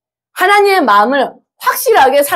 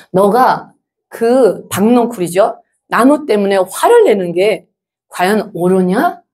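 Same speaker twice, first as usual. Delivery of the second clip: gentle questioning; 2 semitones lower, slower than usual. Retold or imitated. God questioning angry Jonah over the withered vine, gently. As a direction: ask it gently, taking your time. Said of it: "또 부드럽게 물어봤어".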